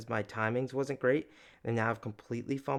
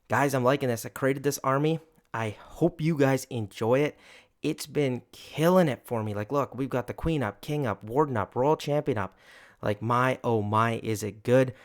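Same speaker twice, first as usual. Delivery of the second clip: louder, hyped-up wrap-up; excited; 6 dB louder than usual. Real, not acted. YouTuber hypes his new army to viewers, loud and excited. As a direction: sell the army to your viewers with energy.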